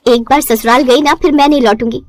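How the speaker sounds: plain rueful echo of एक बार ससुराल गई ना; tired bride mocks her own old boast, rueful; mocking her own vow. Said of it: "क्या dialogue मारा था तूने।".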